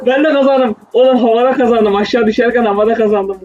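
high gleeful yelling; excited shouting. Real, not acted. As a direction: crow about the lucky win. Cheering his own win mid-fall.

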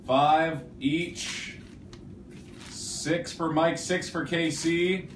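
sports commentator calling a live contest; play-by-play commentary. Acted. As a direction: call it like a live match, building. Counts the marshmallow challenge live.

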